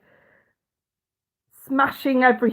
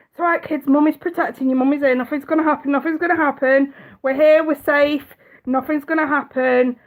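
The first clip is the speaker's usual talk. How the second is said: brave reassurance; 5 semitones higher than usual. Retold or imitated. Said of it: "keep a brave face on".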